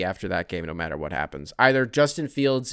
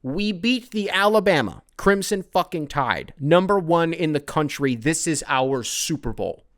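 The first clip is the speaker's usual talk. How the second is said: all caps shout; 4 semitones higher, 4 dB louder, slower than usual. Acted. Host reading the fan's all-caps line, louder and slowed down. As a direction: read it louder, stretched out and triumphant. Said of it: "All caps".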